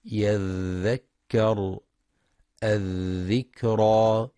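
يذكر الذكرى with a soft, flowing ذ held long; soft dh demo. Shown as a demonstration. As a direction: stretch the ذ in يذكر الذكرى so the air keeps flowing. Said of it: "هكذا".

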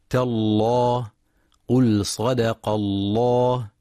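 slow recitation of تالله with a full, heavy lam in الله after the fatha; measured Quranic recitation with a heavy lam in الله; heavy lam in Allah. Shown as a demonstration. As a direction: say صدق الله slowly with the lam of الله thick and round. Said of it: "اتفق القراء على تغليظ لام لفظ الجلالة".

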